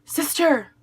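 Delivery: a loud, high call across the room; bursting into the restaurant calling her sister, loud and high; yelling. Retold or imitated. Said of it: "I yelled".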